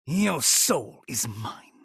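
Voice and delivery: whispered, slow menacing line; his own version. Shown as a demonstration. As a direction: hiss it out in a whisper. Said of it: "and then my version".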